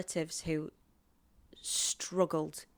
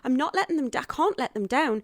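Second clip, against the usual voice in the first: high, louder acted-out despair; retold tearful panic; 7 semitones higher, 5 dB louder than usual. Actress torn between pilot and Casualty, re-enacted tearful panic. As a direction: imitate yourself in a distraught flap. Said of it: "spent the next two days crying, going".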